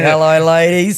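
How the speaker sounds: lightly voiced flirty ghost; a hint of a cheeky suitor; Gustav flirting. Imagined Gustav greeting the ladies, light flirt. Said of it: "I could see Gustav doing".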